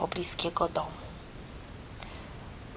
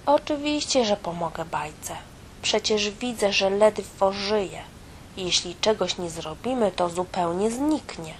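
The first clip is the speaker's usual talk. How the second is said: mild exclaim; 2 semitones higher than usual. Acted. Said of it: "wykrzyknęła w odpowiedzi mysz komputerowa".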